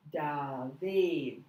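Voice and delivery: David stretched into two open vowels; drawn-out syllables. Shown as a demonstration. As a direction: say David slowly, both vowels clear. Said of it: "See my mouth opened twice".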